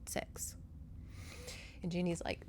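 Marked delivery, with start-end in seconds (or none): 0.1-0.6 whispered, as if it were unmentionable; imitating an awkward mother's whisper; hushed taboo word. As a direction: drop to a mock-delicate whisper. Mother broaching a delicate subject.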